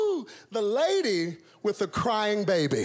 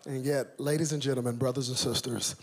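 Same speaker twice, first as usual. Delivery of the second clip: sermon. Acted. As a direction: draw the church into the message. Preaching sermon.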